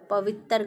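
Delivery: पवित्र said as "pa-vit-tar", vowel slipped into the ending; wrong pronunciation of पवित्र. Shown as a demonstration. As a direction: split the end of पवित्र into "tar". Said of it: "गलत है".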